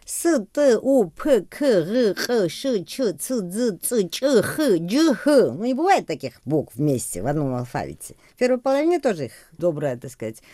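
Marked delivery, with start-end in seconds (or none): 0.0-5.5 proud demo of Georgian consonant clusters. Shown as a demonstration. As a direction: rattle off the harsh Georgian letters, showing how hard they sound. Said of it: "Я вам сейчас скажу, вот вторую половину грузинского алфавита".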